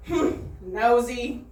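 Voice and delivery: slow sniffy put-down; dismissive. Retold or imitated. Woman dismissing the comic, slow and sniffy. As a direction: brush her off, slowly. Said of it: "And she goes".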